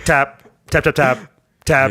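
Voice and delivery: taps spoken in a broken rhythm; Morse code tapping. Retold or imitated. Host imitating an old tapping machine, rhythmic tapping. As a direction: imitate a telegraph key with the word tap. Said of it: "it'd be like Morse code".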